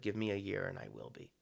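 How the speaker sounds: soft and fast, slightly altered voice; quick hushed quote. Retold or imitated. Conductor asks the management for a year, softly and quickly. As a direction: rush the promise out under the breath. Ozawa quoted asking for time.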